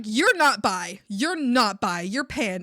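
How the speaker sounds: loud, insistent mock correction; insistent contradiction. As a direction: imitate a roommate flatly contradicting you. Acting out roommate's contradicting quarrel.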